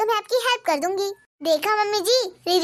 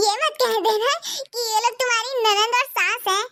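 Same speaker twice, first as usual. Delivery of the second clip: laughing high while teasing a friend; 4 semitones higher than usual. Acted. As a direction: laugh through the jibe. (हँसते हुए चिढ़ाना)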